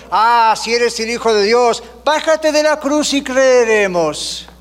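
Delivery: lightly mock the crucified man with scorn; mocking taunt. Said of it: "se burlaron de él diciendo". (burla desdeñosa imitada, arrastrando el final)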